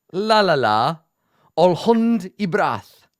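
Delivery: hammed-up Elvish chant; mock Elvish inscription. Shown as a demonstration. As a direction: intone the inscription slowly like an elvish spell. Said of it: "that is literally a word in Elvish".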